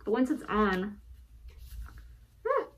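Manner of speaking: muffled behind a cloth mask; through a face mask. Real, not acted. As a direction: talk through a heavy twill mask. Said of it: "I'll just put it on really quick".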